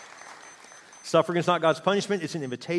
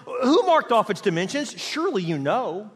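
higher, loud mocking challenge; sarcastic God; 5 semitones higher, 5 dB louder than usual. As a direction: needle them with a question they can't answer. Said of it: "He says".

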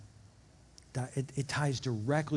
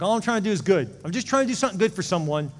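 louder, higher outraged complaint that fades back down at the end; mock indignant rant; 6 semitones higher, 7 dB louder than usual. Imitating a hurt giver questioned by others, mock outrage. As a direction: play the wronged do-gooder, hammed-up. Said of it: "You're like".

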